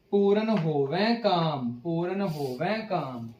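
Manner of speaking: slow recitation with ਹੋਵੈ nasalised at the end; nasal ending. Shown as a demonstration. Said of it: "ਅਸੀਂ ਇਸ ਨੂੰ ਬਿੰਦੀ ਨਾਲ ਪੜ੍ਹਨਾ ਹੈ".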